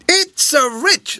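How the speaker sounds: high, slow broad Scots; lightly voiced Scots countryman, slowed. A narrator's reading. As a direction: drag it out in a Scots drawl. Jameson's Scots speech.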